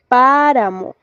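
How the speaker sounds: "páramo" with a long, prominent PÁ; "páramo" as a careful demo of first-syllable stress. Shown as a demonstration. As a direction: lean on PÁ in "páramo". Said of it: "esta marca la posición del acento".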